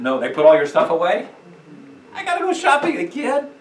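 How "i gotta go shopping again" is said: mock exasperation. Mock groan about redoing shopping.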